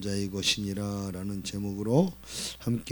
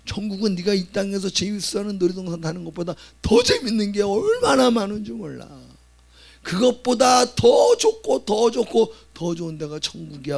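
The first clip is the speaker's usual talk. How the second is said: higher, louder building excitement; enthusiastic father; 9 semitones higher, 8 dB louder than usual. Retold or imitated. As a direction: sell heaven to the boy with rising zeal. Father selling heaven to son. (아들에게 천국을 신나게 설명하는 아빠)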